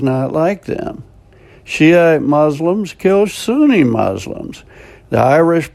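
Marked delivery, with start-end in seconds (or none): none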